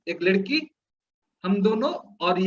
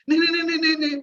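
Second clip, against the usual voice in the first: scared refusal; 6 semitones higher, much faster than usual. Retold or imitated. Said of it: "वो पूरा डरने लगी पूरा".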